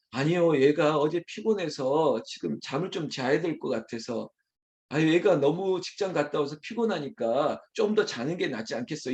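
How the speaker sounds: mild, conciliatory mother; acted placating tone; gentle excusing. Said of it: "좋게 말해주고 있어요".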